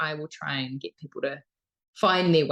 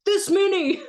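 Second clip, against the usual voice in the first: higher, louder mock exasperation; exasperated clarifying; 6 dB louder than usual. Worker retelling giving change to confused customers, mock-exasperated. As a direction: spell it out loudly for someone not getting it. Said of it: "eventually I'd be like".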